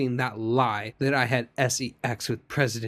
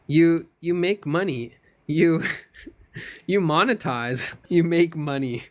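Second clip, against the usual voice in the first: higher, heated mock accusation; acted accusation; 4 semitones higher than usual. Witness accuses lawyer of making money, mock indignant.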